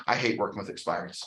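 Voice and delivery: low, soft, quick grumble; grumbled dislike. Retold or imitated. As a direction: mutter a quick complaint under your voice. Voicing own negative talk, then others' opposite.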